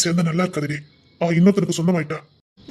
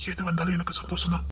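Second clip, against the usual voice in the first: whisper; 7 dB quieter than usual. Acted. Husband whispering wish.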